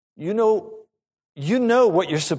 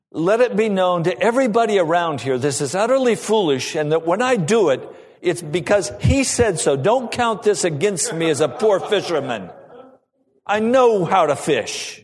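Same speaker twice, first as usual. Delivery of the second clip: loud, high, indignant protest; Peter with attitude; 6 semitones higher, 5 dB louder than usual. Acted. Fisherman protesting an order he thinks foolish, indignant. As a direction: proclaim the objection for everybody to hear. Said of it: "So with an attitude, he says".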